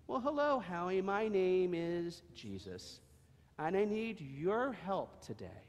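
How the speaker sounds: Jesus greeting Howie. Acted. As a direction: speak kindly to the little donkey. Jesus speaks to donkey.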